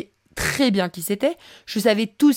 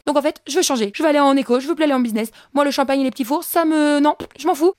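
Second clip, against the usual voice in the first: higher, breathless gushing to her sister; giddy excitement; 4 semitones higher, much faster than usual. Retold or imitated. Telling her sister on the plane the star is aboard, gushing. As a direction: babble like a starstruck fan.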